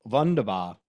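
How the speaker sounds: Wunderbar with a German v, vahn-der-bar; a playful try at German; German word. Shown as a demonstration. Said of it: "Was that what you say in Germany?".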